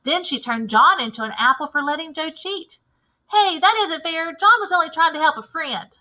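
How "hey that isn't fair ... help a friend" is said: put-on higher, protesting kid voice; indignant boy. Todd protests to the teacher, indignant. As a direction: object hotly on behalf of a friend. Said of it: "said Todd".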